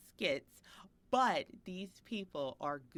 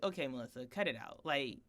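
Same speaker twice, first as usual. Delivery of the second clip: firm talking-to, building louder; acted self-scolding; 6 dB louder than usual. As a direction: give yourself a mock telling-off. Retells scolding herself.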